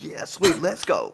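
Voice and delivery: high, gleeful inner cheer; secretly delighted a rival is out. Retold or imitated.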